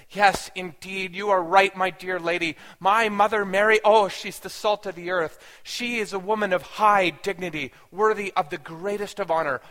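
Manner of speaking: loud, emphatic approving declaration; pleasant praise. Retold or imitated. Imagined son praising mother Mary to a lady, emphatic. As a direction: praise her grandly, leaning on the first words. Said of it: "pleasantly just saying".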